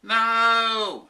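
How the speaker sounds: high, loud panicked no; scream. A narrator's reading. Professor Clock stopping his wife pulling the lever, loud scream. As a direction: scream it to stop her. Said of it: "screamed Professor Clock".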